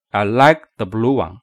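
"like" and "blue" carry the beat; stress on like and blue. Shown as a demonstration. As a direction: hit "like" and "blue", pass lightly over "the". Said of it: "为什么要重读他们两个".

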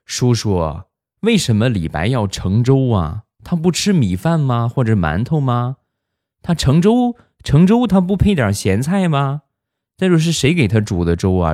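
put-on high-pitched child firing off questions; imitated kid, voice leaping up on each question; curious little kid. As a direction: pester an uncle with innocent questions. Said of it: "小家伙突然就说".

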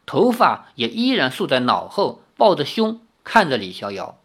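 expressive, measured novel narration; story narration. A narrator's reading. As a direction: read the tale aloud with lively intonation.

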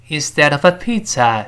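instead of a pizza with "instead of a" run together; connected model reading of instead of a pizza; linked phrase. Shown as a demonstration. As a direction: join instead of a into one smooth chunk before pizza. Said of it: "是这么一个声音".

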